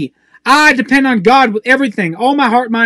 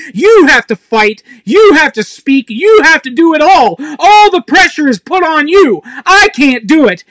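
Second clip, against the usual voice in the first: louder, higher, pressing each you hard; intense; 4 semitones higher, 4 dB louder than usual. Real, not acted. Preacher railing against pressure put on believers, intense. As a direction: hammer the demands with rising intensity. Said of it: "I'm very intense".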